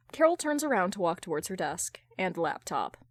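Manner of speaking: ordinary delivery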